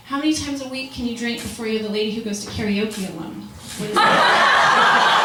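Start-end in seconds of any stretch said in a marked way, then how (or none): 3.8-5.2 breathy disbelieving high laugh-question; incredulous high squeak. Real, not acted. To the audience about drinking limits, squeaky incredulous.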